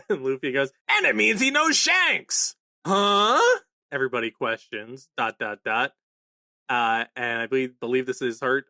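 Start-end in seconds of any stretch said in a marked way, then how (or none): 0.9-3.4 excited realisation. Retold or imitated.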